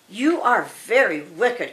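storybook cry with a touch of anger; mild indignant cry. Acted. Dorothy accuses the witch, crying out slowly. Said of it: "cried Dorothy".

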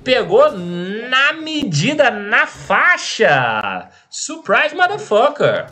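high, hyped-up caster call; grenade warning yell. Real, not acted. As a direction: shout it out as the grenade lands. Excited caster hyping a grenade.

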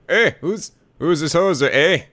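tentative attempt at Canadian; Canadian accent. Shown as a demonstration. Player testing a voice for the character, shaky-confidence Canadian accent. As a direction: have an unsure go at a Canadian accent. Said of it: "I don't know if I can do a good Canadian accent".

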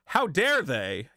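mock indignation. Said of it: "You don't get a".

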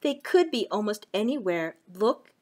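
lively storybook reading; reading to children. Acted. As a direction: read it to little kids. Reading a picture book.

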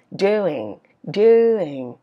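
"doing" stretched and descending; falling tune. Shown as a demonstration. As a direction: let each "doing" glide down. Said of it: "ngữ điệu đi xuống". ("doing" xuống giọng, kéo dài)

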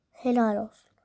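"Helal olsun" whispered with no voice; whispered sarcasm. Acted. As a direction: hiss "Helal olsun" under your breath. Repeats the praise under her breath.

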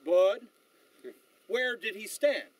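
imitated West Texas accent, loud Bud then a slow question; Sam Elliott. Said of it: "in that West Texas accent".

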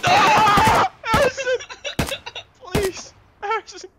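calling for help. Real, not acted. Dying in game, calling teammate.

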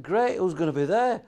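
eager. Retold or imitated. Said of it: "I said".

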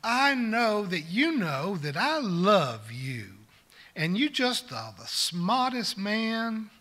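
put-on sweet old Southern lady, slow and drawn out; lightly voiced Southern grandmother, slow; Southern accent. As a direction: imitate a gentle Southern church lady pleading. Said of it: "said through her thick Southern accent".

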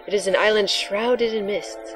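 mystical seer intoning; hushed prophetic line; breathy oracle voice. Acted. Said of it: "your breathy, sexy voice for the oracle".

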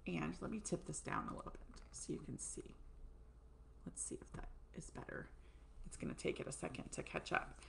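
unvoiced mutter off-mic; whispered aside. Real, not acted. Fixing the camera mid-video, whispering to herself. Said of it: "adjusting camera aside".

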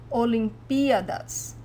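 Olimpíadas with clear stress on pí; model pronunciation. Shown as a demonstration. Teacher shows students the correct Olimpíadas, stress on pí. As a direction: say Olimpíadas carefully, leaning on pí. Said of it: "the way you say the Olympics".

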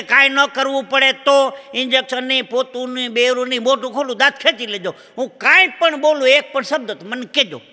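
insistent patient. Acted. Patient to dentist refusing every painkiller, boldly insistent. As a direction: bold patient waving everything away.

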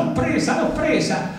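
high-pitched exultant cry; triumphant crying out. A narrator's reading. Artist clutching his new conquest, triumphant high cry. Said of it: "gridava a distesa".

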